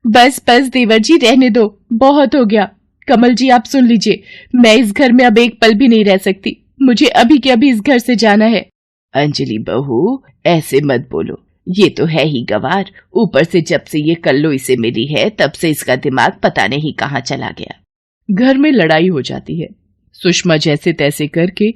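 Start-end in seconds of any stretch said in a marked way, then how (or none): 0.1-8.7 high, fed-up protest; high-pitched dramatic ultimatum; indignant daughter-in-law. Acted. 9.1-17.7 lightly voiced older woman; slightly lowered, placating character voice; placating mother-in-law.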